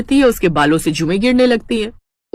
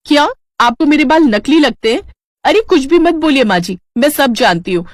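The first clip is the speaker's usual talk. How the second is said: raised, indignant retort; angry; 5 semitones higher than usual. Acted. Daughter-in-law angrily accusing her mother-in-law of jealousy. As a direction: snap back at the mother-in-law. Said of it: "प्रीति को गुस्सा आ जाता है".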